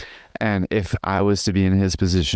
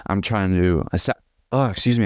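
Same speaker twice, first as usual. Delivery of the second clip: hiccups. Real, not acted. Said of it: "I have the hiccups".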